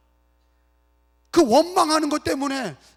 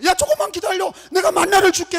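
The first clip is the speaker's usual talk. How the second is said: higher-pitched call to hungry people; God calling out; 6 semitones higher, 4 dB louder than usual. Acted. Preacher as God to hungry Israelites, calling out. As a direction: call out a promise to impatient children.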